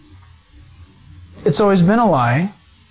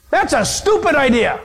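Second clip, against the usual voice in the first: scoffing; 5 semitones higher than usual. Acted. Acts out scoffer refusing.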